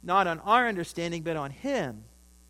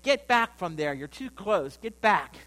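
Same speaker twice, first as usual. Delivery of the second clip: higher, louder retold warning; urgent warning; 3 semitones higher, 7 dB louder than usual. Man warns Kim back from the canyon edge, urgent warning. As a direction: call out as if urging someone back.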